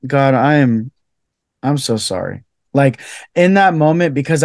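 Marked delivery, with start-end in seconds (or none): 0.1-2.4 contrite apology. Retold or imitated. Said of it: "I was like".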